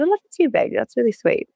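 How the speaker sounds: high, tender mum voice to her daughter; tender reply. Retold or imitated. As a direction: coo it back sweetly to a small child. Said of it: "And I said".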